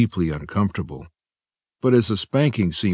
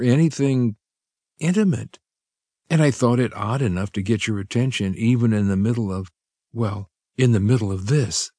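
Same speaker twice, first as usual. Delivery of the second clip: higher voiced woman, sheepishly explaining; lightly voiced young woman, a touch flustered; Lydia, embarrassed; 5 semitones higher than usual. A narrator's reading. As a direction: trail off shyly at the end.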